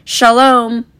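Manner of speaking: loud, high, sudden call; imitated yell. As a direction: imitate grandma waking up to yell it. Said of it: "suddenly awoke ever so slightly to yell".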